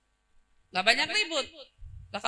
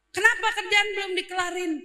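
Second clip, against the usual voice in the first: angry scolding; 6 semitones higher than usual. Acted. Boss scolding unfinished work.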